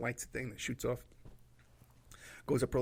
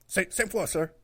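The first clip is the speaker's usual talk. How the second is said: nervous recruit; 5 semitones higher, 8 dB louder than usual. Retold or imitated. Nervous recruit answers in elevator.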